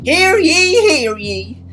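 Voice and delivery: high, loud opening call; town crier. Acted. Susie announcing the detective's help, mock town-crier call. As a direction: proclaim it like a crier. Game character makes public proclamation.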